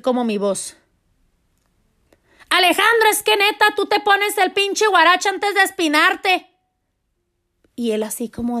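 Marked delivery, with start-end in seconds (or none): 2.5-6.5 high-pitched scolding call to her son, slowed; scolding yell. Retold or imitated. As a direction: yell at him like a mom who has had enough. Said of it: "el grito fue". (regaño gritado y agudo de mamá a su hijo)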